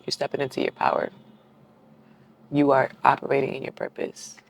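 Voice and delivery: soft, choked-up encouragement; holding back tears. Real, not acted. Reader moved for her listeners, holding back tears. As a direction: speak quietly while fighting back real tears. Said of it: "I'm really trying not to cry right now".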